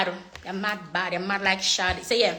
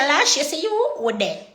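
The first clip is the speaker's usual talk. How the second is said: talking to lashes; 4 semitones higher than usual. Pretend. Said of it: "I'ma say".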